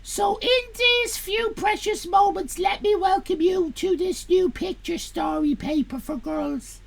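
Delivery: theatrical reading of an editorial; hammed-up comic read. Reading Misty's welcome to chat, theatrical. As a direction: camp up the welcome letter.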